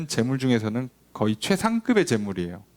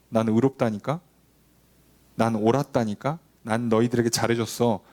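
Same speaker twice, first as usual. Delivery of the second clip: lightly voiced God; 4 semitones lower than usual. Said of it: "라고 하나님 말씀하시죠".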